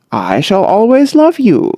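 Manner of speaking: lightly cordial and friendly. A narrator's reading. Sam answering the daughter, mildly cordial. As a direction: say it pleasantly, with cordial ease. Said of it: "said Sam cordially".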